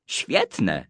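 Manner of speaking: put-on quiet low mumble of a boy; low mutter. A narrator's reading. Boy alone at his computer, muttering quietly. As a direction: mutter it to himself under his breath. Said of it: "mruknął Kuba".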